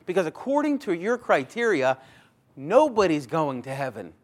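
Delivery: high, loud worried outburst; mock-anxious crowd pleading; acted panic about heaven; scared listeners. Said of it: "They're scared".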